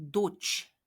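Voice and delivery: 도치 slowly and clearly; slow demo. Shown as a demonstration. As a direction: model 도치 slowly. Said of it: "라고 합니다".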